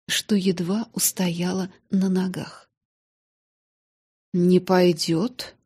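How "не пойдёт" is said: drawn-out stunned question; slow disbelief. Acted. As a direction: repeat it slowly, stunned. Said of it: "повторила она".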